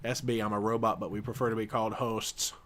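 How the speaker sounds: flat robot monotone. Pretend. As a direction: read it like a robot. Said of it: "I had to read that like a robot".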